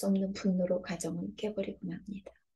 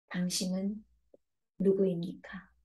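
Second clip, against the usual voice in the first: whispered question. Real, not acted. Preacher asks the congregation directly.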